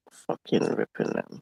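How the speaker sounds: whispered curse under the breath; muttered under breath. Real, not acted. Peeling stickers, cursing in a whisper. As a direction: mutter it to yourself.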